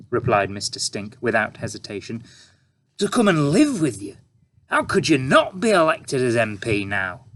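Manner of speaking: oozing fake praise; sarcastic reporter. A narrator's reading. Reporter character.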